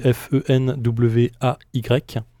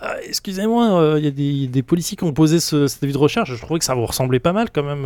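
put-on Arletty accent; 2 semitones higher than usual. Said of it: "comme Arletty".

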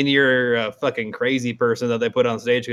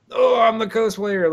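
mocking cosplayer; 9 semitones higher, 3 dB louder than usual. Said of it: "they're like".

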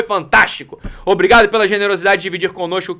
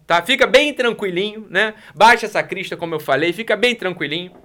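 ordinary talk, nothing marked

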